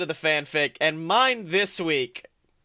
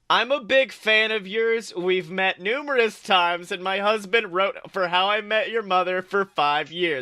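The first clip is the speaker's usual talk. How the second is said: read out a reply; 2 semitones higher than usual. Retold or imitated. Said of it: "Her reply".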